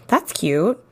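dry, mock-approving aside; sarcastic. Real, not acted. Host reacting to the homophobic boy in a DM, mildly sarcastic. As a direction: say it as if approving, meaning the opposite. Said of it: "That's sarcasm".

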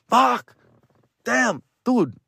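high-pitched mock whine; acted-out pained disbelief; dismayed cursing. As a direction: lament the loss in a high voice. Replays frustration at loss.

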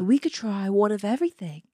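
put-on amateur Australian tourist accent. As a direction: put on a loose Aussie accent. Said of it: "do an Australian accent".

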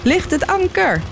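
high, ringing command; shouted order. A narrator's reading. Captain calls to his crew to raise anchor, shouting. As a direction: call it out across the deck. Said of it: "riep hij".

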